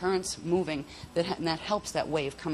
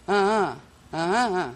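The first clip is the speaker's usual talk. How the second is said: paired vocal tones, louder; two-syllable tone sounds; 6 dB louder than usual. Shown as a demonstration. Teacher demonstrating two-syllable tones. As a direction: tone in pairs of syllables. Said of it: "two would be like".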